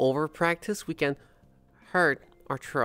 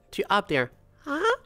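high voice; 6 semitones higher than usual. Shown as a demonstration. Voice coach demoing a high pitch. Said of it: "when you go from".

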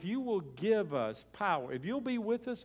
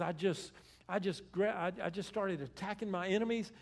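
higher-pitched excited retelling; fired up; 4 semitones higher than usual. Retold or imitated. Preacher voicing David attacking his enemies, fired up. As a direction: tumble eagerly into the battle story. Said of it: "hear how fired up he is".

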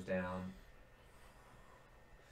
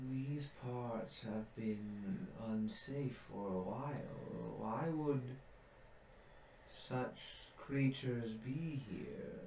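put-on slow, softer old tree voice; weary ancient treant; 6 dB quieter, slower than usual. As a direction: speak slowly like a tired treant. Trent voice, slower, quieter.

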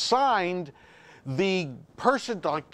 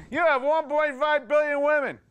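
mock outrage; 4 semitones higher than usual. Comic envy of Gentile odds.

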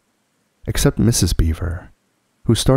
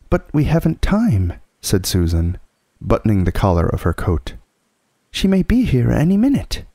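put-on anxious girl voice; 4 semitones higher than usual. Susan voiced.

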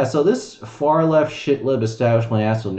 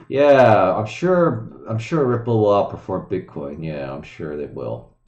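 sarcastic mocking. Real, not acted. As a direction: feign agreement with scornful sarcasm, sinking away at the end. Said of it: "I'm obviously being sarcastic in a mocking, uh, manner".

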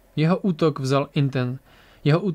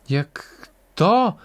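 high, loud incredulous burst; uncontained outburst; 4 semitones higher, 4 dB louder than usual. A narrator's reading. Bastien cannot contain himself on hearing of Iris, blurting. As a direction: let the question burst out. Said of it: "Neudržel se Bastien".

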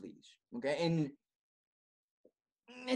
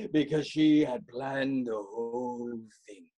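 slow villainous voice; sinister reveal; 3 semitones lower than usual. Acted. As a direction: savour the scheme, slowly. Villainous reveal after cackle.

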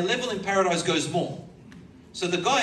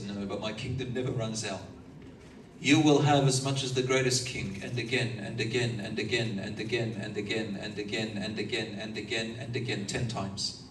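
reassuring; 5 semitones lower than usual. Acted. Allah reassuring the servant.

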